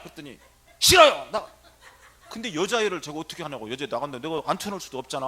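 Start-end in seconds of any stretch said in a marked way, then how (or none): 0.8-1.5 high, loud mimicked defiance; shouted refusal. Patient refusing the priest's order to sit, defiant shout. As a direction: yell it straight back.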